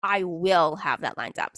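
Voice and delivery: slow, firm, stress on I and will; firm declaration. Shown as a demonstration. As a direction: say I will have that lined up like a done deal. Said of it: "that's the difference between saying".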